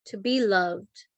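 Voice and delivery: measured, reverent reading of a prayer; calm, evenly paced devotional delivery; prayer recitation. Real, not acted. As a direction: pause before each answering word, like a litany. Recites Saint Francis's peace prayer.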